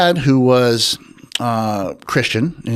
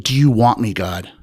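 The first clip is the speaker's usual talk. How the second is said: retold yell at God. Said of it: "I'm yelling this while I'm jogging".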